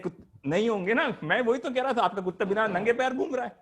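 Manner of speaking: fast, high, eager sales pitch; pushy salesman. Acted. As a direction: rattle off the pitch like a street hawker. Improv pushy shoe salesman.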